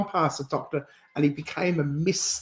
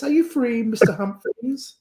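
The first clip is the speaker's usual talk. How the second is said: lightly acted, higher, lilting query; sitcom catchphrase; 6 semitones higher than usual. Friend quoting a sitcom line back, lightly sung-out question. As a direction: call it out lightly, lifting at the end.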